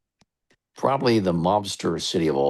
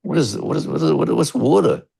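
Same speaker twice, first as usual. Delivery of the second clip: retold bafflement; 10 semitones higher, 3 dB louder than usual. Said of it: "I go like".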